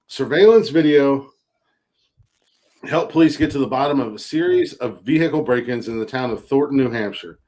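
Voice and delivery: reading the article like a newscaster; deadpan news anchor read. Acted.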